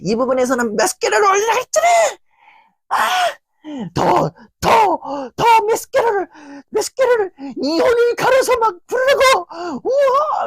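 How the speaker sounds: very high, shrieking rage; a frantic high-pitched tirade building to a wail; hysterical screaming. Retold or imitated. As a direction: scream at the singer like a madwoman. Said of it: "이러면서 막, 아이고".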